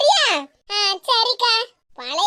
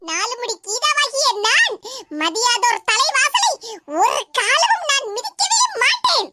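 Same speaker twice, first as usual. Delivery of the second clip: slow, drawn-out declamation; grand, swooping proclamation; theatrical vow; slower than usual. Acted. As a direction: declaim it like a stage hero, stretching the words. Mock-heroic recital of a vow.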